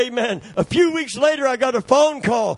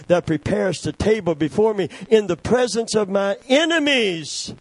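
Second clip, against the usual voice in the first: psalm recitation; 3 semitones higher than usual. Acted. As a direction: lift the psalm as you go. Reciting Psalm twenty-three.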